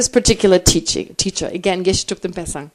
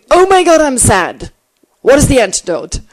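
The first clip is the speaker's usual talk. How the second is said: mock alarm; 6 dB louder than usual. Mock panicked reaction to sadness.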